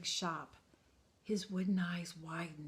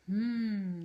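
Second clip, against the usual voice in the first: thoughtful hum; 3 semitones higher, 6 dB louder than usual. Acted. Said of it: "the maker spoke thoughtfully".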